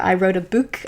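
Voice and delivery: BOOK with a long "oo", like "boook"; long "oo" vowel in BOOK; accented BOOK. Shown as a demonstration. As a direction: slip into an accent on BOOK, rhyming it with "spook". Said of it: "I keep going into that accent".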